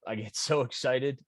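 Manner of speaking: a moved laugh breaking into the words; choked-up laugh. Real, not acted. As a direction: laugh through the emotion. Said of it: "I get choked up".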